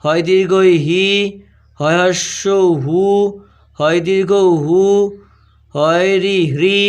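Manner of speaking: very slow, drawn-out syllables with pauses; spelling dictation. Shown as a demonstration. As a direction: dictate each letter combination slowly, stretching the final vowel. (ধীরে টেনে টেনে বানান বলা)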